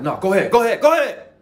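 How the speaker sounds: loud, high frantic yell; spazzing out. Retold or imitated. To a lady holding the door, a frantic high yell. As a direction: blurt it out in a panic. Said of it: "I spazzed".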